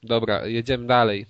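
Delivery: blocked nose. Real, not acted. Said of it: "mam zapchany nos, pewnie to słychać".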